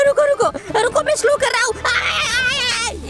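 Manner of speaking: high, slow words through laughter; laughing plea. Real, not acted. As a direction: laugh while begging them to wait. Chased, laughing while fixing.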